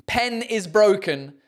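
slow, deliberate "Pen is broken"; corrected as two words. Shown as a demonstration. Repeating the sign's real meaning, slowly split words. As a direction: lean on "Pen", short e, keep "is" separate. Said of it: "trying to figure out what that should be".

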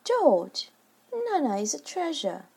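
high, soft wifely voice; mild pleading, falling from a high start; gentle protest. A narrator's reading. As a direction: gently reprove a husband. Wife gently defends the nurse.

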